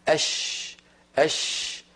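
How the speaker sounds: soft voiceless أش from mid tongue; sh sound demo. Shown as a demonstration. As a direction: hiss out a clean sh. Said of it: "فكتبوا الشين من وسط اللسان". (شين مهموسة من وسط اللسان)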